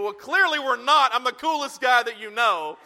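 mock-boastful joke to Mike. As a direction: puff up like the coolest guy. Joking brag to friend.

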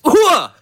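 sharp high grunt like a serve; tennis grunt. Pretend. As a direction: grunt as if hitting the ball. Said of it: "I'm in a tennis match right now".

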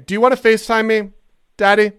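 loud, fast teasing flirt; flirty tease. Acted. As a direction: push the flirt, cheeky and loud. Prank caller flirting loudly.

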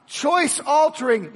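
choice-altering, said high, loud and slow; emphatic. Acted. Preacher to congregation, loud emphatic choice-altering. Preacher repeats his list.

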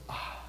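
soft exhaled sigh of recognition; breathy "ah". Acted. Preacher acting out something stirring within a listener, sighing softly. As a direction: let out a hushed, airy "ah". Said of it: "does something in you go".

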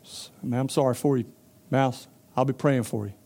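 a pig offering empty sympathy; lazy pig. Acted. Pig answers the mouse.

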